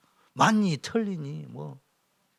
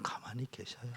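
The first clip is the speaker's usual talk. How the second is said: hushed whisper; 3 semitones lower, 16 dB quieter than usual. Acted. Pastor telling the congregation to hush, whispered.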